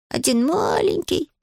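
ordinary delivery, nothing marked

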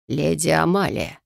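slow, reproachful address; accusing. Acted. Favérol accusing Lady Amalia, slow and reproachful. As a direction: lay the blame with her name. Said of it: "обвинительно начал он".

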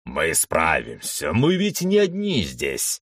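rising defiant shout; rally your own confidence; defiant cheer. Acted. Potapov reassures.

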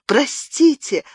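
a high crying простите; sobbing cry. A narrator's reading. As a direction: break into an open sob. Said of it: "зарыдала она".

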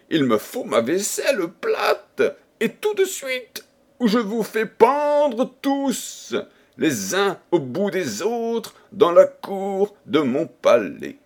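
a tyrant king bellowing threats at his staff; angry king shouting. A narrator's reading. King threatening to hang his servants, furious high cry. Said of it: "criait le roi".

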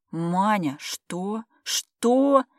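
high, loud astonished cry; stunned disbelief. A narrator's reading. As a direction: gasp it out in total shock. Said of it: "открыла рот она".

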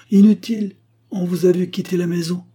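loud, high, overriding retort; forceful accusation. Acted. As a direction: cut off the denial with force. Accuser cuts off the denial.

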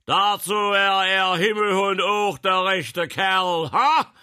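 high, slow, full-force bellow; thunderous roar. A narrator's reading. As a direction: thunder it out like a lion. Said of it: "donnerte er mit löwenstarker Stimme". (mit löwenstarker Stimme gedonnert)

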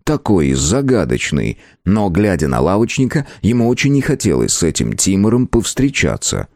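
ordinary delivery, nothing marked

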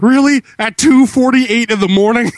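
high, loud disbelieving question; mock incredulous. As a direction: act shocked at the hour. Voicing Audrey's disbelief.

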